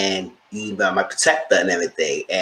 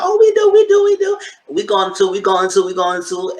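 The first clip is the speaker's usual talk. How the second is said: high mock cry-shout that fades, much higher and louder; mocking Cass; 10 semitones higher, 4 dB louder than usual. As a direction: squeal it as Cass, then let it die down. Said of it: "She's like".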